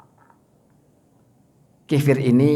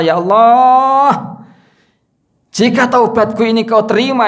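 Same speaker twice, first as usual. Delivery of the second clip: crying prayer; 4 semitones higher than usual. Acted. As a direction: cry out to God begging forgiveness. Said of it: "Wah, nangis betul-betul tuh".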